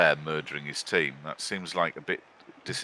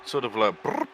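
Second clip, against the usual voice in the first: cat trill; 4 semitones higher than usual. Shown as a demonstration. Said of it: "I believe a trill is the correct term".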